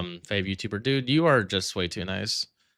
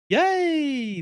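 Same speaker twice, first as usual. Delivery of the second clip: sarcastic yay; 4 dB louder than usual. Acted. Sarcastic cheer about dying.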